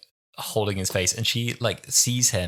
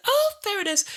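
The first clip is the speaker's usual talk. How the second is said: knowing quip; 3 dB louder than usual. Retold or imitated. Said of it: "I was like".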